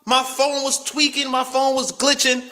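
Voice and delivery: mimicking his date's apology; mock apologetic girl. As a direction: play her sugary sorry. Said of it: "was like".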